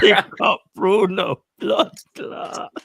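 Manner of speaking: slow, loud mock patois shout-out; mock Jamaican accent. Host teasing Bruno, slow and loud in mock Jamaican accent. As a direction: ham up a Jamaican hype man. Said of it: "Bruno dropping the accents as well".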